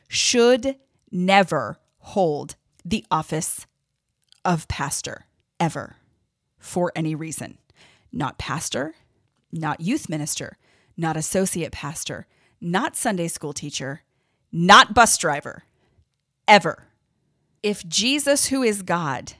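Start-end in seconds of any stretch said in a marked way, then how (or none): 0.1-14.0 furious list. Real, not acted. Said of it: "I am furious". 14.5-16.9 loud, slow yell of the last items; furious shout. Real, not acted. Podcaster on abusers in church jobs, furious loud shout. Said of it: "I am furious".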